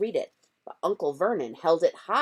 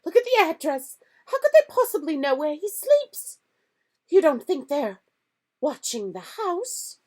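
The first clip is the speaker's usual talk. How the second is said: quivering voice; 12 semitones higher, 6 dB louder than usual. A narrator's reading. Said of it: "in a quivering voice".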